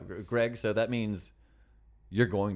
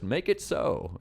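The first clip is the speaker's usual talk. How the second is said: Jean-Luc Picard impression; 3 semitones higher, much slower than usual. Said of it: "my Jean-Luc Picard impression".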